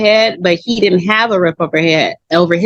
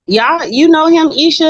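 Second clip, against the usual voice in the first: higher, lightly voiced brother's question; imitating brother; 9 semitones higher than usual. Brother questioning his sister about her boyfriend, lightly mimicked higher. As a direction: ask it up high, a touch suspicious. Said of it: "He said".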